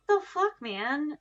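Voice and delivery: high, loud outraged burst; real outburst. Real, not acted. Telling viewers how absurd it was, loud outburst. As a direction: blurt it out in disbelief.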